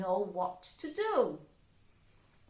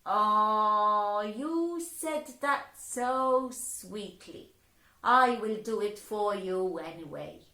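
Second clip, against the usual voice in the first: amused Mama; 7 dB louder than usual. Acted. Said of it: "And Mama laughed".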